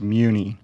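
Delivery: Muni said MYOO-nee; surname pronunciation. Shown as a demonstration. Panelist introducing himself corrects his surname, Muni pronounced MYOO-nee. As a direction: say Muni like the start of municipal. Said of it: "my last name is pronounced".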